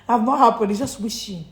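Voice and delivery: normal talking voice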